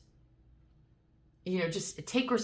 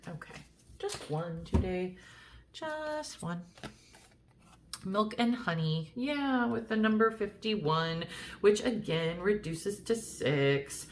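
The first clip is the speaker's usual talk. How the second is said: sing-song voice; 3 semitones higher than usual. Real, not acted. Reader announcing her card to the viewer in a sing-song lilt. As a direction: sing the card reading playfully up and down. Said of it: "doing this in a sing-song voice".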